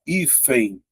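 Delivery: HÍFEN said slowly, ending in a nasal "ein" glide; pronunciation demo. Shown as a demonstration. Teacher shows the final N as semivowel, slow HÍFEN. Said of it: "Veja que a letra N".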